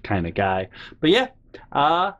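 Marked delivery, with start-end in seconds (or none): 0.0-0.7 creepy voice. Pretend. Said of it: "With this creepy ending".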